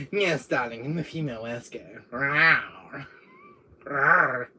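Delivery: lightly voiced vamp ending in growled rawrs; female Wesker. Answering as female Wesker, flirty darling voice. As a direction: play a flirty female villain. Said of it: "You're a female Wesker now?".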